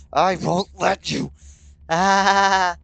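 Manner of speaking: slow, loud straining cry; determined shout. Acted. Holding the knife back, loud and slow. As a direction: push out with effort. Grabbing Yuri's wrist.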